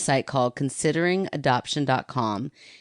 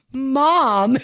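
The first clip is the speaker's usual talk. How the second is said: higher, louder embarrassed protest; exasperated Mom; 9 semitones higher, 6 dB louder than usual. Retold or imitated. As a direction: scold her like a mortified daughter. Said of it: "I was like".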